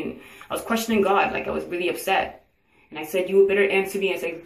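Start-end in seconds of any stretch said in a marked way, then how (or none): 3.3-4.1 retold angry demand to God, a touch raised. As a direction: demand an answer with mild, re-enacted anger. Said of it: "this is how I was talking".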